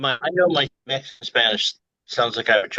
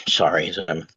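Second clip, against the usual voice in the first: embarrassed whisper; 5 semitones lower than usual. Real, not acted. Embarrassed apology, trailing off.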